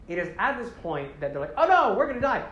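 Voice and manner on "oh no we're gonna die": high-pitched comic alarm; mock panic. Riders facing the ash bear, mock panicked cry. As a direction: cry out in hammed-up fear.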